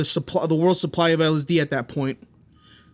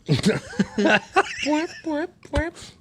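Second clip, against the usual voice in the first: fart noise imitation; 11 semitones higher, much slower than usual. Mimicking farts while laughing.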